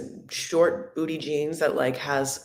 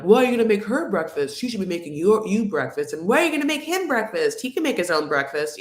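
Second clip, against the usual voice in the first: quick, louder needling jab; mock jab; 4 semitones higher, 3 dB louder, faster than usual. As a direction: fire off the jab like a sibling quarrel. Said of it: "throwing jabs at each other".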